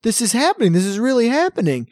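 excited disbelief. Retold or imitated. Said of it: "they're like".

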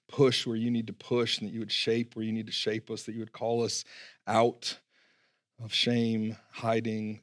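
soft, low opening prayer. Real, not acted. Pastor praying softly over the church before the sermon. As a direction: pray quietly over the congregation.

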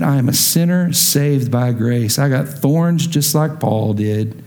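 slow, understated admission; acted honest testimony, measured pace; humble confession. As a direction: own up plainly and unhurriedly. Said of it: "When you come in and go".

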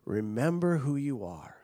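hushed echoing whisper; whispered Mufasa. Retold or imitated. Mufasa's spirit whispering to his son as he fades. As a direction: breathe it out like a fading spirit. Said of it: "Mufasa says".

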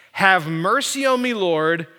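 crying out. Retold or imitated. Canaanite woman cries out to Jesus, crying out. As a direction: plead aloud as if calling to the Lord. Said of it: "began to cry out, saying".

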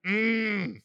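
drawn-out imitation moo; low "ma" sliding into a humming moo; cow mooing. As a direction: do a cow's lowing. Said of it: "she's a cow, so she's like".

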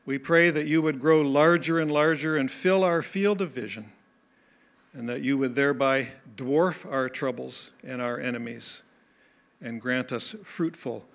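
earnest, measured pastoral prayer voice; closing prayer. Acted. Pastor leading the congregation in prayer, earnest prayer voice. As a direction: pray aloud over the congregation.

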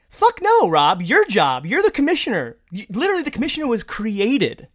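loud, high outburst at the commissioner; heated scolding, hammering each phrase; indignant retort. Acted. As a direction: tear into him, pitch leaping up. Imagined angry retort to commissioner.

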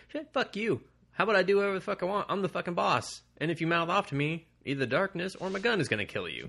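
high, heated mock tirade; indignant boss. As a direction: put the underlings in their place. Acting out how boss should answer.

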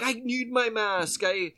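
high, slow Minnesota whine on my mask; Canadian-ish whine. Retold or imitated. Woman defending her mask to shopper, mock Canadian whine. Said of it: "she was like".

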